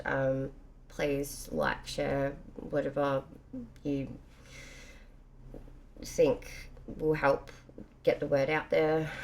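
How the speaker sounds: slow drowsy speech; nodding off. Real, not acted. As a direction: drag the words out sleepily. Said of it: "I'm so tired, half asleep".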